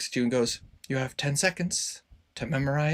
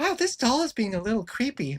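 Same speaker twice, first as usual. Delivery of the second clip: put-on very high, tiny little girl voice; 10 semitones higher than usual. Voicing a little girl heard by the players near a doll: little girl voice. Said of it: "you hear a little girl go".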